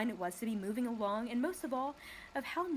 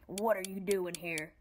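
growling; 2 semitones lower than usual. Acted. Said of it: "growled the watchdog".

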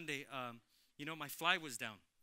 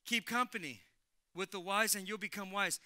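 proclaiming; 3 semitones higher, 7 dB louder than usual. Real, not acted. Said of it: "reading scripture aloud".

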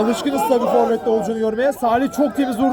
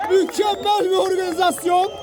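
excited shout; 5 semitones higher than usual. Real, not acted. Goal call, shouting.

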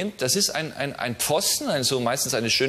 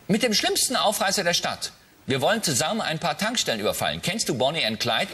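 high daughter voice. Acted. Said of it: "Ich unterscheide es stimmlich ein bisschen".

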